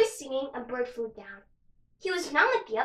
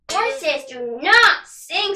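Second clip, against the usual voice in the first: slow scornful sneer; 3 semitones higher, 9 dB louder, much slower than usual. Acted. Horse sneers slowly.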